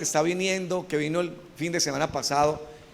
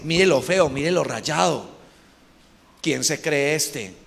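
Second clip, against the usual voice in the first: lightly voiced scornful enemy, trailing lower; a hint of the devil's contempt; 3 semitones lower, slower than usual. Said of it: "Esa es mera voz del enemigo".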